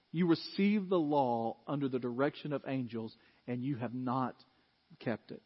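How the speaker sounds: grave hush. Acted. Pastor voicing Stephen's last charge to the council, hushed. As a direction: let it land quietly and gravely. Final charge dropped low.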